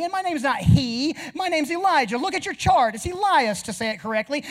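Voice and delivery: mock indignant patient telling off the doctor; wounded dignity, building in pitch and force; offended. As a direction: play up the affronted customer. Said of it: "I was very offended".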